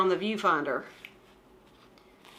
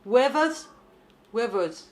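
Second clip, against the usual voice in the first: put-on British accent. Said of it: "How do they say wivers?".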